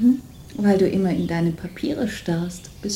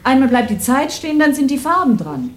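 exasperated retort; 4 semitones higher than usual. Acted. Wife snaps at husband's claims.

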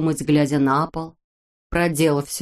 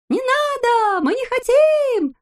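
very high, loud, slow protest; shouting; 3 dB louder, slower than usual. A narrator's reading. The others shout at Neznaika, very high. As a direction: yell against it. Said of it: "кричали остальные".

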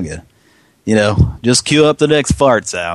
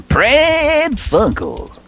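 shouted, drawn-out segment intro; show announcer; much slower than usual. Pretend. Host introducing prank phone calls live, hammed-up announcer shout.

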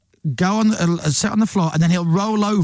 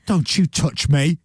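slow, spaced-out cat warning; menacing cat; slower than usual. Acted. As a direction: warn like an offended cat, slowly. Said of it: "swipes me with his paw and goes".

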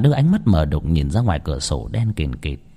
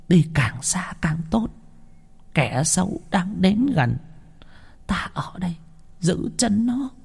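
put-on urgent old woman; 9 semitones higher, 5 dB quieter than usual. Old woman urges Đào to flee.

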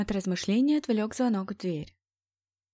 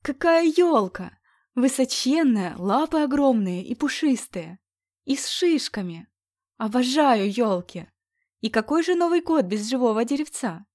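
put-on bubbly sorority girl; 4 semitones higher, 5 dB louder than usual. Squeals with joy at tree.

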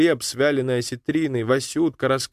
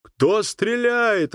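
muffled megaphone voice; 10 semitones higher, much slower than usual. A narrator's reading. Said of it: "гулкий, придавленный голос".

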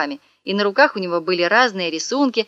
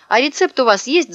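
eager shout; 6 semitones higher, 4 dB louder than usual. Acted. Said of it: "закричал он".

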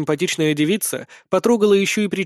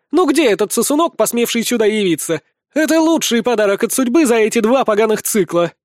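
high, louder furious shout of a warrior woman; 6 semitones higher, 4 dB louder than usual. A narrator's reading. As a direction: spit it out with rage. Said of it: "что злая до безумия". (взбешённый крик, выше и громче)

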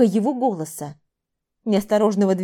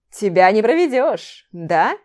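хитро; 5 dB louder than usual. Acted. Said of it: "Хитро прищурился он".

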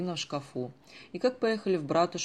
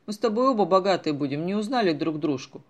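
laughing aloud; 3 semitones higher, 7 dB louder than usual. A narrator's reading. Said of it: "уже в голос хохотал капитан".

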